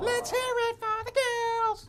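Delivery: rallying cheer. Acted.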